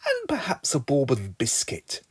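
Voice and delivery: soft whispered aside. Acted. Singer whispering about a biscuit. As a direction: whisper it like a sly treat.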